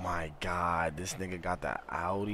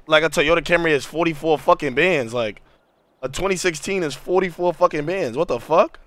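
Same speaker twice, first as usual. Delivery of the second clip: shocked; 9 semitones higher, 13 dB louder than usual. Real, not acted. Shocked at car prices.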